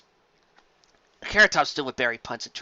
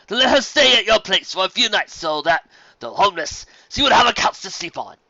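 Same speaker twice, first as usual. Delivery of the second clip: higher, louder, gracious and flattering; courtly gentleman pony; 4 semitones higher, 6 dB louder than usual. Acted. Fancy Pants flattering Carrot Top, raised and gracious. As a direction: lay the praise on politely.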